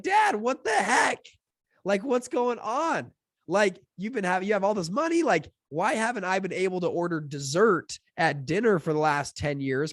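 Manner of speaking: high-pitched mock protest to a parent; acted indignant disbelief. Retold confrontation with his dad.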